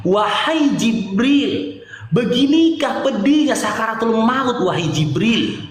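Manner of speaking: slow, long-drawn recited lament; pained plea. Retold or imitated. The dying Prophet asks Jibril, slow pained plea. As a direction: draw out each word in solemn anguish.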